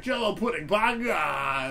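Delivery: high, loud squeak ending in a yell; Bill Cosby impression. Performing for his classmate, squeaky Cosby yell. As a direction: squeak the line and bark the last word. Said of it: "I'd be like".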